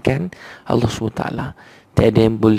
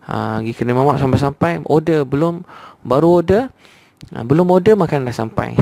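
excited exaggeration; 4 semitones higher than usual. Preacher teasing the crowd about quick restaurant service, mock excited. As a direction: playfully hype how fast the food comes. Now served fast at restaurants.

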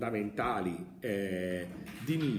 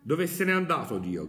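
cried out; 3 semitones higher, 3 dB louder than usual. Acted. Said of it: "gridò".

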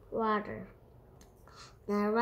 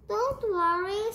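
high, louder rat squeak; squeaky rat; 9 semitones higher, 5 dB louder than usual. A narrator's reading. Rat fobbing off the sleepy cat, high squeak. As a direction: pipe up high as a little rat. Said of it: "squeaked the rat".

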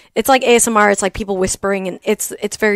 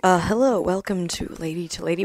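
soft, lower public-radio welcome; NPR voice; 4 semitones lower, 8 dB quieter than usual. Retold or imitated. Co-host mimicking the subdued show opening, NPR voice. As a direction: imitate a hushed radio host, trailing softer. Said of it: "came in with an N P R voice".

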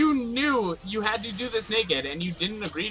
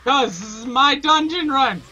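higher-pitched, heated pleading; upset insistence; 4 semitones higher than usual. Real, not acted. Begging a friend not to ruin the last run, upset insistence.

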